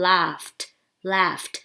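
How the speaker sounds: "laughed" ending in a T sound; final T sound. Shown as a demonstration. English teacher showing learners the ending, "laughed" with a final T. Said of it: "ออกเป็นเสียง T นะ".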